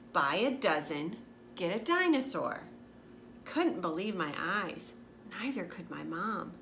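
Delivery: lively picture book narration; reading to children. A narrator's reading. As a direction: read it out for a young audience. Reads a picture book aloud.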